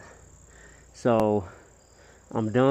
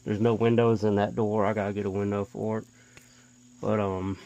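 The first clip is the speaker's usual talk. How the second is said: talking through a face mask; muffled voice behind a mask. Real, not acted. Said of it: "If I sound muffled, I'm sorry, I have a mask on".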